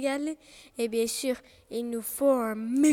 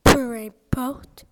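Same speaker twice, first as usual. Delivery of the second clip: coupant court; 6 dB louder, slower than usual. A narrator's reading. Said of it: "coupa Loup".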